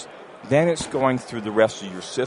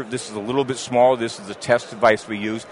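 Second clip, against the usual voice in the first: normal talking voice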